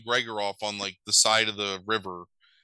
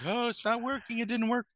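much higher, hammed-up whimper of despair; mock the heroine's despair; mock tearful heroine; 12 semitones higher, 4 dB quieter than usual. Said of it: "And she's like".

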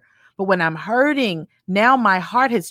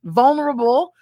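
higher, gentle coaxing voice; God asking for a softened heart, pitched up; 6 semitones higher than usual. Retold or imitated. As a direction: talk someone down from their anger. Voicing God coaxing calm.

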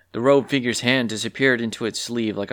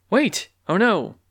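higher gasping realization; sudden dismay; 10 semitones higher, slower than usual. Acted. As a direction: catch the horror mid-step. Realizes lute is broken.

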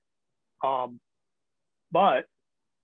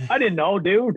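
higher-pitched feigned innocence; playing dumb; 4 semitones higher, 3 dB louder than usual. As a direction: act clueless, pitched up a little. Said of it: "I played dumb".

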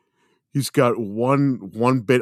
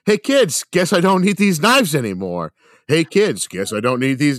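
rehearsing lines; 4 semitones higher, 3 dB louder than usual. Retold or imitated. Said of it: "just practicing the lines".

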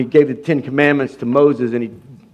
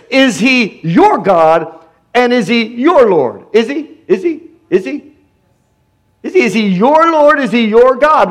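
higher, insistent repeated asking; pressing question; 6 semitones higher than usual. Real, not acted. Preacher challenging the congregation, higher insistent questioning. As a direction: keep pushing the question.

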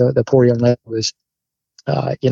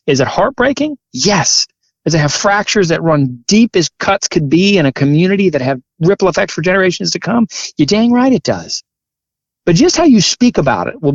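impassioned; 4 semitones higher than usual. Real, not acted. Impassioned answer to own questions.

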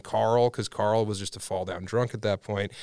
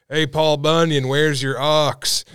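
mocking friend; 4 semitones higher, 5 dB louder, slower than usual. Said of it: "just be like".

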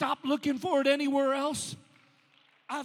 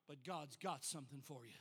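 But God's got something for you said much lower and much softer; hushed refrain; 12 semitones lower, 20 dB quieter than usual. Acted. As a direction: drop it to an intimate near-murmur. Same refrain, now hushed.

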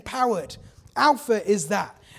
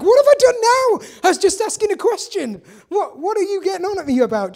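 much higher, louder, indignant whine; whiny kid brother; 9 semitones higher, 6 dB louder than usual. Retold or imitated. David whining at his scolding big brother, high and loud. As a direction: protest like a wronged little brother. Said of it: "and David's like".

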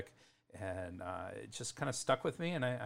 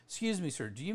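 imitating a cheeky student, pitched up at first; 2 semitones higher than usual. Australian student correcting the teacher's silent H, cheeky. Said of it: "my cheeky, uh, students would".

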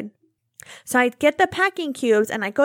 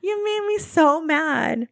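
higher, slow, drawn-out mock anger; slow mock fury; 4 semitones higher, slower than usual. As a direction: stretch each word like a grudging grievance. Repeats the outburst, slower.

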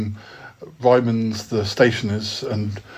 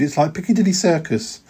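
mother moaning; 5 semitones higher than usual. Acted. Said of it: "she moaned".

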